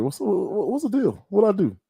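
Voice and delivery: ordinary talk, nothing marked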